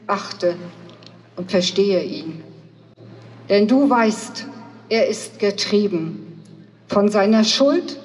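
measured poem reading with deliberate pauses; poem recitation. Acted. Speaker reciting a poem to a gathering in Greifswald, declaimed in measured phrases. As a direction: recite it solemnly, phrase by phrase, stressing key words.

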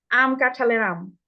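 "আম" said slowly, like the fruit; teacher modelling "আম"; slow demo. Shown as a demonstration. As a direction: stretch "আম" for the class. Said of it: "উচ্চারণটা হবে আম".

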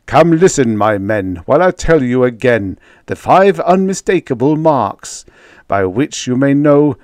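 booming captain addressing his crew; rally the men like a pompous captain; bellman's speech. Acted. Bellman lecturing his crew, booming and grand.

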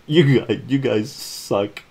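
loud then slow disgusted complaint; disgusted dog. Acted. Dog complains to the family, slow and disgusted. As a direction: drag out the insult. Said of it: "looks at him and says".

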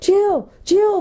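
high, loud desperate calling; frantic shout. A narrator's reading. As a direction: shout her name into the dark, frantic. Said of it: "they shouted frantically".

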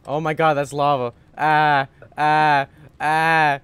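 panicked yelling. Real, not acted. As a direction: cry out in rising panic. Sees lava, panics.

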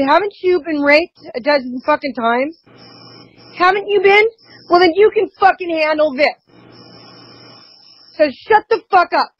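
retold harsh rebuke. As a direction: replay his cruel scolding with a mock snarl. Husband's harsh words retold.

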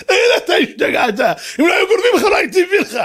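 high-pitched incredulous outburst; exasperated scolding. Acted. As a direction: rail at him in a high, heated voice. King scolds the foolish man. (נזיפה נרגזת בקול גבוה)

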